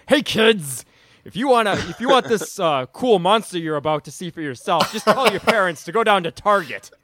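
put-on upbeat ad pitch to kids; kids' TV commercial voice. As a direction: sell it like a toy commercial. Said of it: "He turns to the camera and is like".

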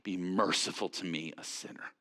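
mock-humble plea fading to a hush. Preacher voicing the tax collector begging God for mercy, hushed. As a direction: plead for mercy, voice sinking to nothing. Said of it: "beating his chest and saying".

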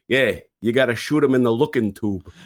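lightly voiced old New York tanker accent; a hint of wartime New York wise guy accent; imitating son's New York accent. Dad quoting his son's tank advice, lightly done New York accent. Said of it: "he's been doing that voice".

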